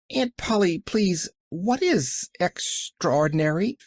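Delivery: put-on high, worried little girl; anxious child. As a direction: ask with anxious wonder. Child asks puzzled.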